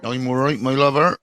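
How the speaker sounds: put-on Bristol accent. Greeting Tash in a light Bristol accent. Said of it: "Oh, I love that accent".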